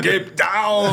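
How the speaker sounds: high mock Austrian-accented film yell; hammed-up action hero warning in Austrian accent; Schwarzenegger. Parodying the actor for laughs, Austrian-accented yell. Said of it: "nem tinha um sotaque bom".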